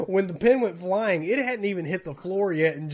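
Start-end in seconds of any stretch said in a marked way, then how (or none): none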